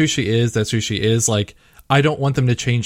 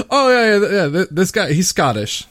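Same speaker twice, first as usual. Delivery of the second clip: mock-casual reveal; 5 semitones higher than usual. Mimicking whoever says it as if typical in Japanese RPGs, mock-casual. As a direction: toss it off like common knowledge, mockingly.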